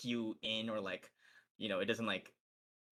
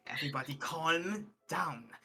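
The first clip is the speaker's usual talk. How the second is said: calling to order; 5 semitones higher than usual. Acted. Estelle calls crowd to order.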